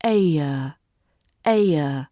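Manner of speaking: ayer gliding into a schwa, no R; British ayer. Shown as a demonstration. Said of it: "Put them together".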